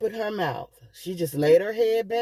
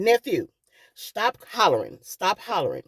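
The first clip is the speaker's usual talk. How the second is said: raised, higher commanding voice to the nephew; retelling how she took charge in a crisis; urgent retold command; 5 semitones higher than usual. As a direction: snap him out of his panic.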